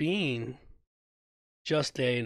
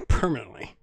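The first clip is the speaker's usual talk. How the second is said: laughing echo; 4 semitones lower, faster than usual. Real, not acted. Laughing repeat of his own word.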